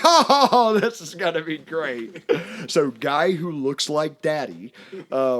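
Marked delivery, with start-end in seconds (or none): 0.0-2.2 loud, high laughing "oh", then settling; retold gleeful anticipation. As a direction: relish the coming scare with a laugh. Gleeful dad anticipates her fright.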